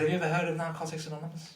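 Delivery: half-accidental Scouse lilt; attempted Scouse. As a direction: quote him with a hint of Scouse. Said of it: "why I said that in Scouse".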